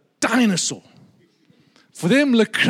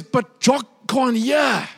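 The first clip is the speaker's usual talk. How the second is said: put-on old lady voice; 5 semitones higher than usual. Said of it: "She now says".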